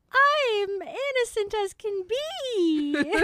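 put-on high, slow sugary child voice; innocent little girl. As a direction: play the sweet innocent child. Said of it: "the little witch goes".

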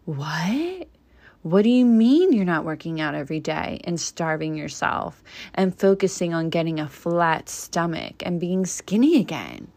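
exaggerated incredulous questioning; hammed-up shock at a new mom; mock disbelief. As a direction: act mildly scandalized, stretching the key question. Mocking society's shock at new mothers.

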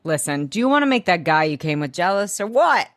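lightly put-on Boston accent; a hint of Boston in the retold line. Cameron challenging Blair in the recap, light Boston accent. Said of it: "I don't know why he's from Boston".

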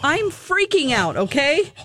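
high, drawn-out nervous excitement; retold freak-out. Telling host about the VIP invite, freaking out.

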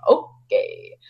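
sarcastic okay. Retold or imitated. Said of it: "he'll just sarcastically be like".

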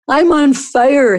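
high, slow wail of pain. Acted. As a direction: wail it out in agony. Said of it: "he wailed".

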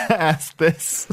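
put-on nasal character voice; nasally voice. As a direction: pinch it through the nose. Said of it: "that weird nasally voice".

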